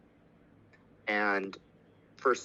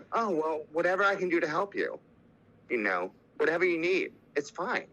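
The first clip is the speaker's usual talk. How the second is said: higher-pitched, lightly voiced supportive friends; imitated reassurance; 6 semitones higher than usual. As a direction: offer help in a higher, accepting voice. Others offering her support.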